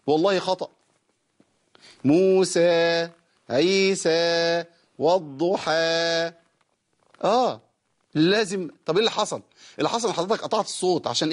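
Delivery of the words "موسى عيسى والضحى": long level final alif on "موسى، عيسى، والضحى"; مد ينقطع لوحده. Shown as a demonstration. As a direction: hold each last vowel of "موسى، عيسى، والضحى" and let it fade by itself. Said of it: "لازم أخلي الصوت ينقطع لوحده". ("موسى، عيسى، والضحى" بمد طويل ينتهي في الهواء)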